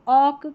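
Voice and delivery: ऑक with open 'aw' and no L; silent-L pronunciation. Shown as a demonstration. Teacher explains the ALK pattern, ऑक said 'awk'. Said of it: "करके पढ़ा जाएगा".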